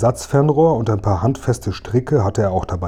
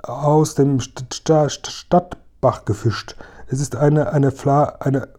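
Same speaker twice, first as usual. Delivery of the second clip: slow, higher, stuck on "St-" and "eine"; stammering; 4 semitones higher, slower than usual. Acted. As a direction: stammer nervously and break off. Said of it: "Warum sprichst du nicht weiter?". (langsam und höher stotternd, bricht ab)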